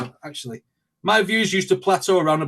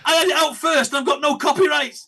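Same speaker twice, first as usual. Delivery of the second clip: high, loud mock-indignant outburst; outraged disbelief; 11 semitones higher, 4 dB louder than usual. Reactor retelling his shock at the other video's views, mock-outraged. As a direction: squawk it in comic disbelief, much higher than usual.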